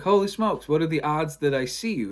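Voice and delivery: high, loud astonishment; amazed exclamation. Acted. He runs into the bassist by chance, loudly amazed. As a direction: burst out, stunned at the coincidence.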